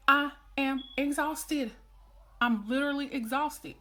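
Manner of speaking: high, loud, exasperated rant; fed-up parent venting. Acted. Worn-out parent tired of repeating herself to kids, loudly exasperated. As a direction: vent like a parent at the end of their rope. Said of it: "And you be like".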